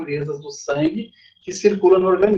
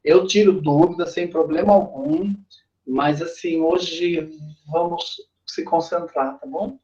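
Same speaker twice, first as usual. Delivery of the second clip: pounding headache. Real, not acted. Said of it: "a minha cabeça tá explodindo".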